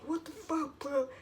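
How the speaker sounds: high-pitched, put-on disbelief; mock startled protest. Punched guy to the homeless guy, mock shocked. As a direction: act stunned without raising the volume. Acts punched guy's reaction again.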